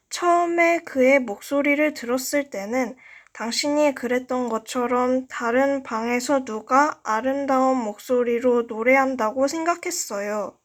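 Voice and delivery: ordinary delivery, nothing marked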